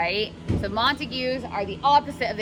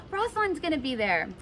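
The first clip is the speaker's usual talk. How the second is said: mock gasp; 6 semitones higher than usual.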